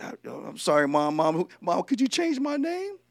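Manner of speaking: lightly acted kid asking mom; mock pleading that climbs at the end; pleading child. Plays child asking mom for rename.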